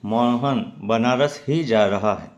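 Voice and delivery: slow demo leaning on ही; stress on ही. Shown as a demonstration. Teacher shows students how ही adds emphasis, leaning on ही. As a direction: say it slowly so ही carries the force. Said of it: "आप इसे उच्चारण करके समझ सकते हैं".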